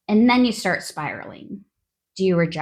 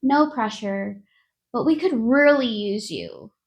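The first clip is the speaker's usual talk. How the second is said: mock manager plea; 2 semitones higher than usual. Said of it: "they finish with the classic".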